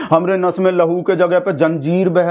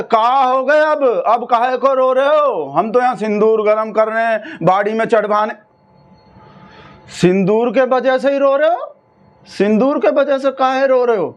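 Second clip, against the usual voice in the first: on the phone; 4 semitones higher than usual. Acted. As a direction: raise the voice down a phone line. Talking to crying friend on phone.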